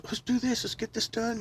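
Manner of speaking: hyped up. Retold or imitated. Mimicking himself buzzed at work.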